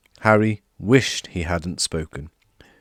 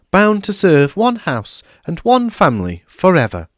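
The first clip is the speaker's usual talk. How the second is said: high, eager squeaky elf voice; a small excitable house elf, very high and loud; high-pitched grovelling elf; Dobby the house elf; 7 semitones higher, 5 dB louder than usual. A narrator's reading. Dobby explains.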